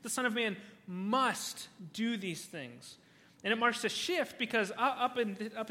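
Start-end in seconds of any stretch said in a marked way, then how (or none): 0.0-3.0 slow, with "must" set apart by pauses; "must" isolated and drawn out; stress on must. Shown as a demonstration. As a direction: hold back, then land firmly on "must". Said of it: "I want to emphasize that word".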